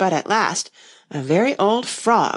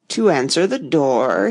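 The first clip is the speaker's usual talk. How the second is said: hoarse frog; 4 semitones lower than usual. Acted. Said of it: "He was so hoarse".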